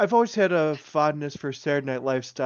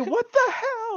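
surprised; slower than usual. Real, not acted. Excited disbelief.

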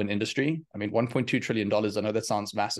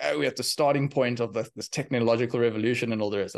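put-on light English accent; 2 semitones higher than usual. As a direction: sound like a grandfather with a hint of English accent. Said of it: "I say that in an English accent".

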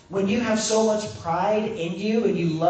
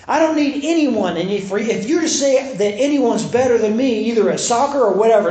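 higher, insistent mock retort; imitated defensive anger; 4 semitones higher, 3 dB louder than usual. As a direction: act out someone mad and too proud for help. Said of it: "he basically got real defensive. And he got mad".

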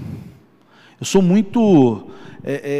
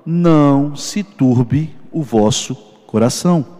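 slow, measured scripture quote, lightly voiced; words of Jesus; 2 semitones lower than usual. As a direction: speak Jesus' reassurance slowly, with spaced-out phrases. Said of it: "você escuta Jesus falando". (citando Jesus, devagar e pausado)

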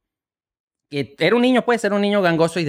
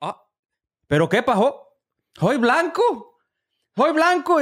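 mock kid voice; 7 semitones higher, slower than usual.

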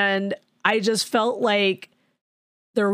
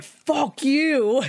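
sharp mock retort pitched well up; mock defiant retort; 9 semitones higher than usual. Girl snaps back at the snooty brother in high mock defiance. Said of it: "is like".

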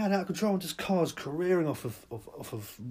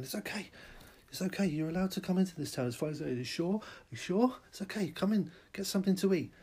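coaxing reassurance; 6 semitones higher than usual. Acted. Townsfolk coaxing a lost wanderer.

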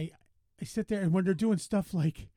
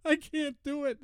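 mock panic; 10 semitones higher than usual. Murr voiced as panicking.

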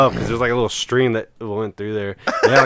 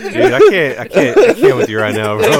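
high-pitched helpless laughter; laughing hard; 11 semitones higher, 6 dB louder than usual. Real, not acted. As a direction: crack up until you can barely speak. Losing it over reverse docking.

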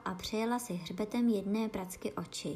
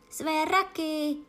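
high, slow excited whoop; whooping cry; 8 semitones higher, 6 dB louder, slower than usual. Acted. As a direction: whoop it out with glee. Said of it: "zavýskl Gryfon".

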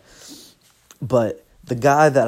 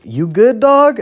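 high, louder bro voice asking if he's okay; mock a stranger checking in, pitched way up; higher, louder imitation of a guy asking "you good, dog"; imitating a concerned stranger; 11 semitones higher, 8 dB louder, slower than usual. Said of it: "some guy just like".

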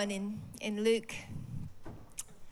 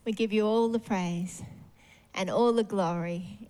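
prayer. Real, not acted. Leads closing prayer.

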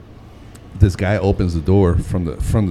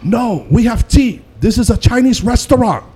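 high, slow mock waitress voice; 12 semitones higher, 3 dB louder than usual. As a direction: imitate the waitress, pitched up and drawn out.

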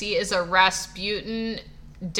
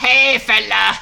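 laughing through a bad Russian accent; giggling, botched Russian-accent attempt; failed Russian accent; 7 dB louder, slower than usual. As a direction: try a Russian accent and crack up. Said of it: "I can't do a Russian accent".

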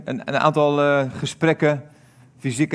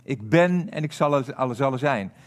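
slow soft echo. Shown as a demonstration. Preacher repeats God's name to let it sink in, slow and soft. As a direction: repeat it slowly, letting the voice drop away. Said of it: "Letterlijk staat er".

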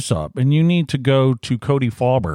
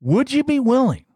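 sweetly pleading; 3 semitones higher than usual. Acted. Pleading request to Cody.

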